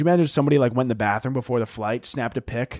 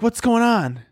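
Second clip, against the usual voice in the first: put-on high-pitched questioning child; little kid voice; 9 semitones higher, 3 dB louder, slower than usual. Eight-year-old asking mom on the plane, puzzled kid voice.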